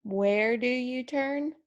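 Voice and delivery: easy rising question. Shown as a demonstration. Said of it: "a nice rising tone".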